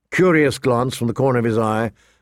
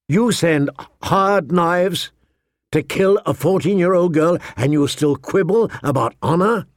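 indignant; 5 semitones higher than usual. Acted. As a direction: demand it with cold outrage. Ned challenges the king.

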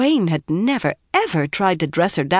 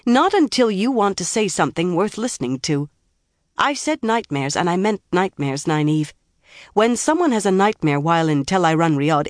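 firm; 3 semitones higher than usual. Acted. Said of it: "Egwene said firmly".

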